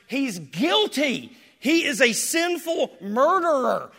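loud, high condemning yell; shouted verdict of guilt; accusing shout. Acted. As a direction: spit out the charge. Accusing blood voiced as a scream.

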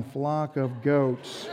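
low, drawn-out quote of a husband; imitated husband's line. Husband in the audience trying the line on his wife, imitated. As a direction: stretch it out slowly and softly. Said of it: "Her husband's going".

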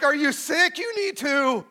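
loud, high call for the room to answer; call and response. Pretend. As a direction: shout it like a song leader wanting a reply. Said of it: "Play along".

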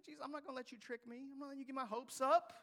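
fast, then loud and high with hurt frustration; mad Martha. Acted. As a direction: push back at Jesus, upset and grieving. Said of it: "She's like".

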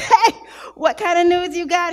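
giggling, half teasing; laughing question. Retold or imitated. Laughing wife asks news.

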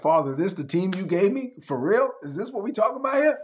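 Jesus can't believe his team; exasperated disbelief. Retold or imitated. Jesus asking the Father about his team, in mock disbelief. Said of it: "He's like".

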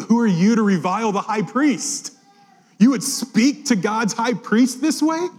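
how dare you, slowing at the end; outraged rebuke. Acted.

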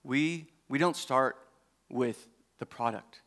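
lightly voiced earnest friend; low, grave and confiding; serious. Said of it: "he got real serious".

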